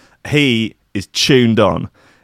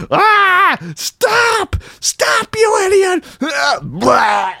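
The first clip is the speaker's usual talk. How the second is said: very high, squealing panic; hammed-up high-pitched screams of protest; Agent Penis; much slower than usual. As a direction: shriek it as a horrified cartoon victim. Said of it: "just poor Agent Penis's face".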